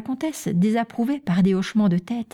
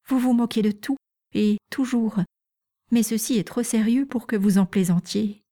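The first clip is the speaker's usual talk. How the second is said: mildly offended; 4 semitones higher than usual. Acted. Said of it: "d'un air offensé".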